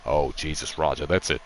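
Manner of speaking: low, quiet Lethal Weapon cop voice; a lightly voiced frantic cop talking to his partner; Mel Gibson impression. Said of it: "Or like Mel Gibson in Lethal Weapon".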